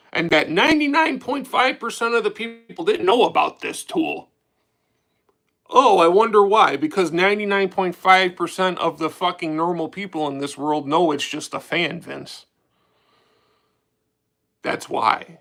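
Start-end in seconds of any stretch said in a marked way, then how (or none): 5.7-15.2 annoyed, a bit worked up. Ranting about a hyped-up tool, getting a little angry. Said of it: "You can tell I'm getting a little angry, right? With my tone".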